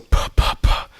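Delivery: "puh" puffed hard, unvoiced; over-pop each "puh" with a burst of air; forceful plosives. Shown as a demonstration. Host shows what not to do, popping "puh" too hard. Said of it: "not just being so".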